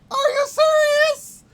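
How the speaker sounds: very high, slow, loud shout of disbelief; frustrated shout. Real, not acted. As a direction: scream it, stretching the words. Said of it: "Sorry that I'm yelling".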